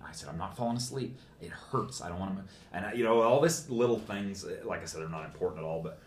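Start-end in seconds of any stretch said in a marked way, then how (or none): 0.3-2.5 hushed, half-whispered protest; soft, partly whispered; whispering. Retold or imitated. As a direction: re-enact a weak, pained reply, softly. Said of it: "I was whispering literally like that".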